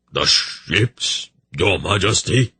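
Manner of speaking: a trembling, beaten reply; mildly shaky, giving in. Acted. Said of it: "he replied in a shaky voice".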